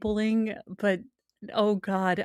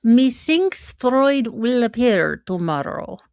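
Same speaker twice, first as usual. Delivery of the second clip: slow, hammed-up olde-English lilt; a lightly put-on theatrical accent, drawn out; mock old-fashioned accent; 3 semitones higher, 3 dB louder, slower than usual. Cohost teasing about tomorrow's Freud guest, slow mock accent. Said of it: "we don't know what accent he's gonna have".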